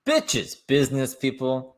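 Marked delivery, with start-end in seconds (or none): 0.1-0.6 mock echo. Mocking echo of her word.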